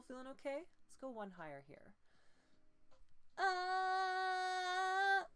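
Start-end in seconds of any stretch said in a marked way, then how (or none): 3.4-5.2 very high, loud, squeezed cry-like tone; nasal compression. Shown as a demonstration. Coach reaches the top and it turns into nasal compression. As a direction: clamp it into the nose, very high and loud. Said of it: "it's turning into the nasal compression".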